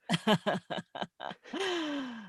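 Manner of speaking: trailing evil chuckle; villain laugh. Acted. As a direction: let the villain laugh fade away. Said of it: "my quintessential villain voice here".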